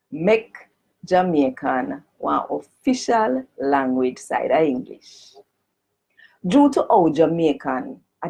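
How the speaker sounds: formal petition read in broad Jamaican patois. Shown as a demonstration. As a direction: read it out in full Jamaican Creole. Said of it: "I'm gonna read it first in a the Jamaican language".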